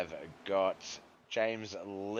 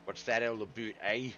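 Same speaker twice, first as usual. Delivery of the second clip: badly faked Canadian accent; jokey attempt at a Canadian accent; terrible Canadian accent. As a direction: put on a hammy, unconvincing Canadian "aboot, eh". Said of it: "That was a terrible, terrible Canadian accent".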